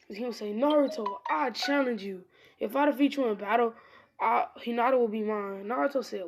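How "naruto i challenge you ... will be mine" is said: raised voice throwing down a challenge; bold challenge. Acted. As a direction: declare it like an anime rival. Kiba challenges Naruto to battle.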